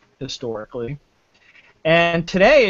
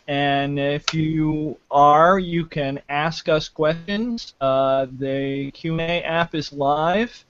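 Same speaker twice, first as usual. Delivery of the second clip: talking slowly; slower than usual. Real, not acted. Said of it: "I'll try to talk slowly".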